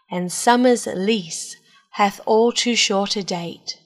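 measured, expressive poetry reading; sonnet recital. Acted. Host reading a Shakespeare sonnet to listeners, measured recital. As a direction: recite it in deliberate phrases, swelling then settling slowly.

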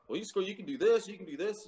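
retold eager urging; imitated persuading sergeant. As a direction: pitch it up like someone selling options. Retold sergeant pushing other job options.

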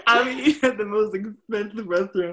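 high, shaky laughing voice; laughing, almost crying. Real, not acted. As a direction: hold back tears of laughter. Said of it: "I'm crying".

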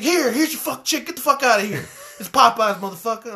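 rude cashier. Retold or imitated. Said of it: "I was like".

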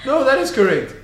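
incredulous laughing. Real, not acted. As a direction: laugh at your own mistake. Laughing at own math.

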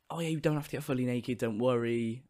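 soft, easygoing retold reassurance; casual reassurance. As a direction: lightly imitate staff putting someone at ease. Retells staff reassuring him at sign-up.

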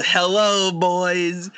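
hammed-up high triumphant yell of a doomed pilot; Russell Case yell. Friend quoting a movie pilot's last words in a high mock yell. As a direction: crow it out high like a crazed hero. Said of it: "then he gives him a".

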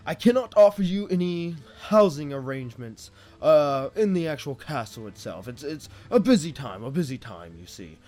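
lightly voiced jovial king, pleased. King welcoming his hired adventurers, lightly jovial.

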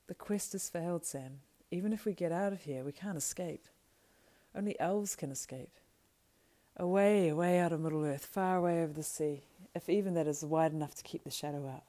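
understated anguish, swelling on the escape; lightly voiced despairing Frodo. Frodo tells Sam all is lost, mild despair.

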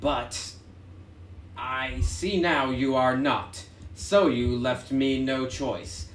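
slow, deliberate letter reading; reading a letter aloud. Acted. Player reads villain's note to the party, slow and deliberate. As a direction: read out the villain's note slowly and formally.

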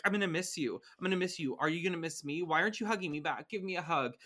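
needy, insistent helicopter mom, mildly acted; clingy mom. Host voicing a mom saying goodbye to her son, clingy.

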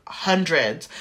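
low reply as if to someone stupid; condescending. Retold or imitated. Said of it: "said it to me like I was stupid".

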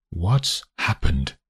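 slow, even and controlled; calm. A narrator's reading. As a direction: keep it calm and slow despite the wine in his face. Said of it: "he says calmly".

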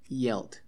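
"yelled" with a soft I-like start, low and falling; "yelled" without a hard Y; soft-Y pronunciation. Shown as a demonstration. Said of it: "como una I".

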